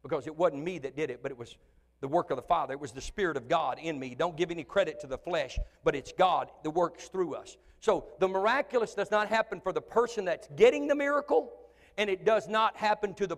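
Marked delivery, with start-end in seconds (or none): none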